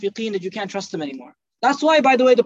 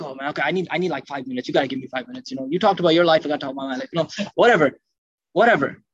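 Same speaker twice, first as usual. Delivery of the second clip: mocking a pushy mic-grabber; 7 semitones lower, faster than usual. Abdullah demanding the mic.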